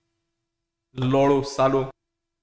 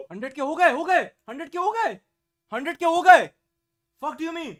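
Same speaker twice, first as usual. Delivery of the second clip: raised, exclaiming repeats; excited disbelief; 3 semitones higher, 4 dB louder than usual. Real, not acted. Streamer reacts to hitting hundred K, excited exclaiming. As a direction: call it out in rising excitement.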